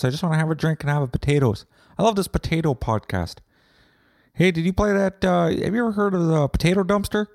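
high, eager potato farmer fan; hammed-up adoring listener voice; excited fan voice. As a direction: gush like a drunk superfan.

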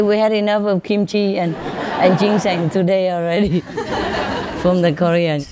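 chuckling as he quotes; laughing at his own joke; laughing through the quote. Retold or imitated. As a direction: giggle your way through it. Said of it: "They say".

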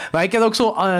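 ordinary talk, nothing marked

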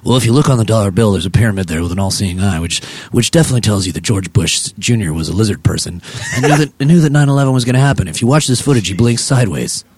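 low, lightly voiced crackpot; conspiracy rant. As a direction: ramble like a paranoid uncle. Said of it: "Another space talk from the man".

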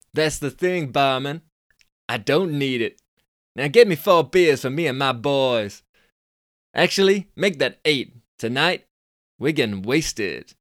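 high, loud Californian dude scoff. Acted. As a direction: squeak up the pitch like a cocky Californian. Billy voiced.

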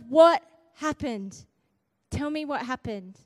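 insistent, impatient questioning; busting to know. Retold or imitated. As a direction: push for the answer, unable to wait. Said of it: "I was busting by then. I couldn't play it cool anymore".

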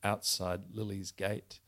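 reading a crime novel aloud; steady, measured storytelling voice; story narration. A narrator's reading. Author reads novel excerpt aloud.

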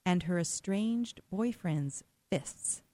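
measured, emphatic scripted story read; dramatic news intro. A narrator's reading. Host introduces a story of an armed veteran's rescue, dramatic read. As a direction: set up the story with weighty pauses.

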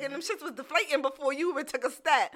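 laughing, loud and high. Real, not acted. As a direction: crack up mid-story. Laughing at fakes.

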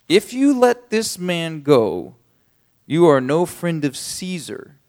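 loud, high, slow accusing shout; shouting leaders. Acted. Jewish leaders shout at Pilate, loud and slow. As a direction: hammer Pilate with the threat. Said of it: "kept shouting".

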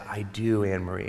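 low, soft retold reply; gentle father. Retold father answering his daughter.

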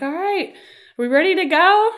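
high-pitched imitated dad; walk in chipper and ready to leave; oblivious eagerness. Dad walks in, cheerfully unaware.

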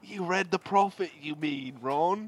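put-on British accent. Student corrects Ron about his reading, put-on British accent. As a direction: correct a friend in playful British. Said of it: "And we'll be British".

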